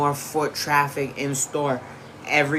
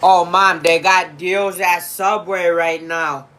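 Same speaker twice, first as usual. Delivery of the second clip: calling out; 3 semitones higher, 6 dB louder than usual. Real, not acted. Calling mom across the house.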